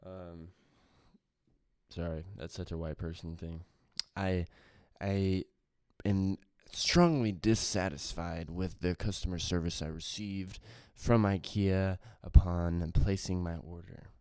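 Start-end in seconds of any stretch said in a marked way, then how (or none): 4.2-14.1 formal complaint voice. Pretend. Mock formal complaint to IKEA.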